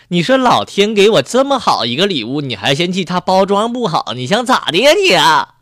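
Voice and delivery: loud, indignant husband's rebuke; exasperated scolding. Acted. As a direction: scold her loudly in disbelief. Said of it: "丈夫这会儿说了".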